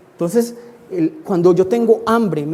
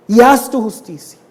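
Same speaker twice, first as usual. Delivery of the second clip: louder preacher's appeal to God; insistent, raised-voice petition; fervent plea; 3 semitones higher, 6 dB louder than usual. Acted. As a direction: press the prayer home with force. Acted fervent prayer for justice.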